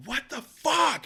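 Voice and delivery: high-pitched exasperated mock yell; re-enacted outburst, pitched high; retold scream. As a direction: jump way up and cry out in disbelief. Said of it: "And I scream it again".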